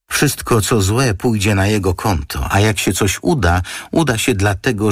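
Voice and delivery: a friend soberly warning of trouble; Iwa, earnest. A narrator's reading. Iwa voiced by narrator.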